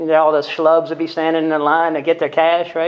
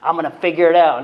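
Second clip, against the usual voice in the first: insistent claim; 5 dB louder than usual. Retold or imitated. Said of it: "that's what I used to tell".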